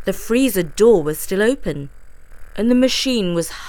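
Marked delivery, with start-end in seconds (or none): none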